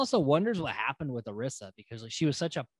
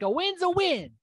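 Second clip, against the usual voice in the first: high mock shrug; 12 semitones higher than usual. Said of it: "Tarek's like".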